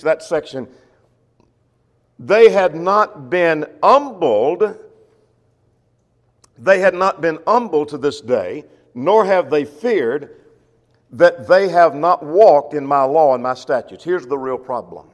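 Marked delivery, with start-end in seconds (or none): 2.2-14.0 very slow, loud, weighty scripture reading; preaching scripture. Acted. Teacher reading the prophet's words to his class, very slow and loud. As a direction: let each word land like a verdict.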